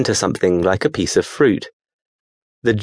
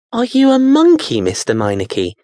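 put-on boy voice; 12 semitones higher than usual. Daniel questions the creature.

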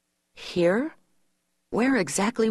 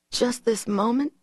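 querying; 6 semitones higher than usual. A narrator's reading. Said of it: "she queried".

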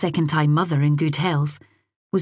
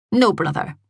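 put-on sulky child; 3 semitones higher than usual. A narrator's reading. Boy denying new brother.

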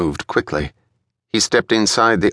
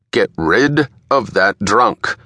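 slow, hard command, a shade higher; curt order; 4 semitones higher, slower than usual. A narrator's reading. Frost orders his boxer to dump the drunk, coldly. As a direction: spit out the order like a thug boss.

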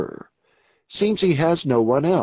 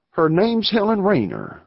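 eager; 6 semitones higher than usual. Acted. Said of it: "replied Beasley eagerly".

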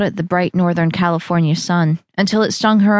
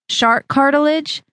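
higher, cheerfully listing it; proud of the weird ingredient; pitched-up eager friend; Val's voice; 7 semitones higher than usual. Acted. Val lists ingredients.

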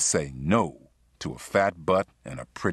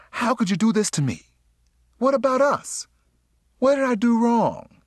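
very high, wailing woman's voice, growing louder; distraught mistress; 4 dB louder than usual. A narrator's reading. Sheila questions her lover about his engagement, distraught. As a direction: plead in a high-pitched, hurt outburst.

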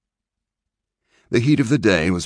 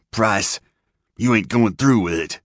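higher, hoarse, pleading doomed rider; 5 semitones higher than usual. A narrator's reading. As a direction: rasp it out in dread.

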